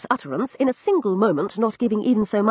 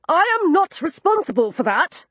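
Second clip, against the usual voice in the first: put-on much higher, fluttery protest like an old woman; shrill old lady tone; 10 semitones higher than usual. A narrator's reading. Lord Rodney protests in a much higher old-woman tone. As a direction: squeak it out like Missus Tupper. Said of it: "in a tone that would ... Missus Tupper".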